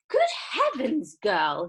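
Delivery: high, loud alarmed shriek. A narrator's reading. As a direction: shriek in horror. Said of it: "shrieked Missus Beauregard".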